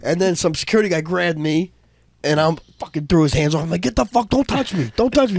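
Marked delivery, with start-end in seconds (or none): 3.8-5.4 retold angry warning. Retold scuffle with security guard.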